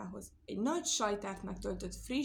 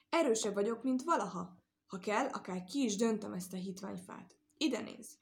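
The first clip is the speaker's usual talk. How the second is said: boastful. Acted. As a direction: show off her strength, chest out. Cow boasting her strength.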